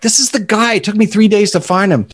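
a touch of panic, lightly acted; retold panic. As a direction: replay your own flustered excitement. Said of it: "I'm in a panic because I'm like".

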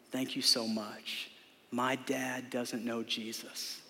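soft, slow, hushed retelling of her whisper; retold whisper. Pregnant woman confides to Mark, a soft mock whisper. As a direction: lean in and hush it like a secret in his ear. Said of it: "she whispers to him".

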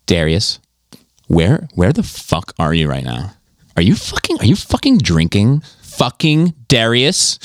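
lightly voiced angry woman, drawn-out words; mock interrogation of Darius, slow and indignant; impressione della donna. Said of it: "your impression of the, of this chick".

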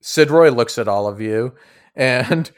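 usual speaking voice

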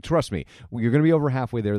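insisting. Retold or imitated. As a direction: lean in and convince him. Repeats the promise more insistently.

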